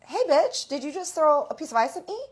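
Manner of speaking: high, loud, fast mock challenge; indignant confrontation. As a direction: imitate an outraged friend calling her out. Retold friend confronts ice thrower.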